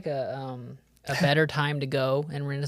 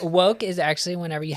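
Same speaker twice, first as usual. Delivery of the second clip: laughing; 3 semitones higher than usual. Real, not acted. Joke answer, laughing.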